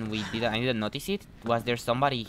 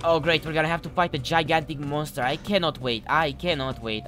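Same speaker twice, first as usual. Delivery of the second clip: mock enthusiasm for the coming fight; sarcastic; 4 semitones higher than usual. Real, not acted. Player dreading a gigantic monster fight, sarcastic. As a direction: feign eagerness, each "cannot wait" emphatic. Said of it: "I am sarcastic".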